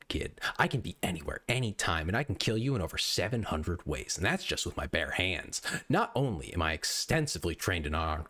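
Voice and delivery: gruff, threatening copypasta read; hammed-up online tough guy rant; menacing tough guy. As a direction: sneer the threats like a wannabe sniper. Reads navy seal copypasta in character.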